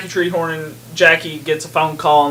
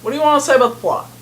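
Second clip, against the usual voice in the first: whisper yelling; 9 semitones higher, much faster than usual. Real, not acted. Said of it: "you started yelling at me".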